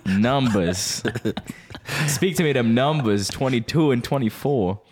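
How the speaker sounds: slow, put-on goofy preacher voice; silly voice. Podcast host slipping into a silly voice. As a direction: drag it out in a goofy voice. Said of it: "Why is the voice happening?".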